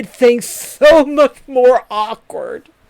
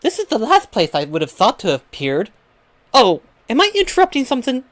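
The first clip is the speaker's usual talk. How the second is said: fairy godmother; 3 semitones higher, 3 dB quieter, faster than usual. Retold or imitated. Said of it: "you hear a fairy godmother voice".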